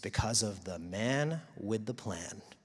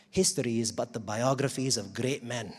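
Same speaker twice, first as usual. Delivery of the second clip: light, shaky-attempt Scottish accent. Quoting a Scottish historian to an audience, attempted Scottish accent. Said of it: "my best attempt at a Scottish accent".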